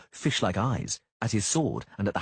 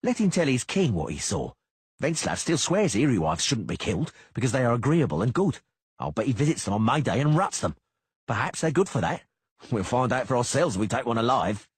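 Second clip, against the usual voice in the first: louder, higher coarse soldier; sneering mercenary; 5 semitones higher, 4 dB louder than usual. Acted. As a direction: jeer like a crude sellsword. Beady-eyed mercenary voice.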